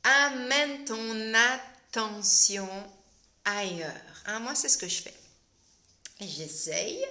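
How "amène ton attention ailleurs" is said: slow soothing breathing cue; guided calm. Shown as a demonstration. Host coaching viewers to breathe, slow and soothing. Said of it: "tu arrives à nouveau à".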